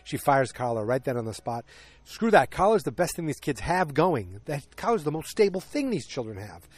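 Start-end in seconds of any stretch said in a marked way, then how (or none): 2.0-4.4 loud, high exasperated exclamation; indignant outburst. Real, not acted. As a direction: blurt it out in disgust. Outraged at firing of nanny.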